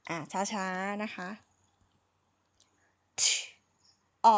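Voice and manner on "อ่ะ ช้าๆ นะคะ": slowly. Shown as a demonstration.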